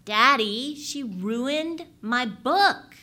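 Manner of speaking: loud, high, drawn-out wail; crying child. Acted. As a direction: whine it slowly like a sobbing kid. Child crying to dad in story.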